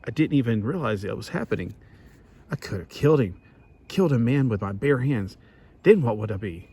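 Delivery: lightly acted, a touch of anguish; half-acted hero monologue; dramatic reading. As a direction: read the hero's inner voice with mild urgency. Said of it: "Let me, let me read it".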